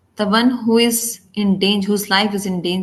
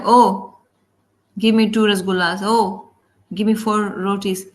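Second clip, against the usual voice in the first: demanding beggar. Shown as a demonstration. Wrong-way beggar rattling off food orders quickly, demanding. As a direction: rattle off orders like you're owed. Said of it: "A, a beggar doesn't speak like that".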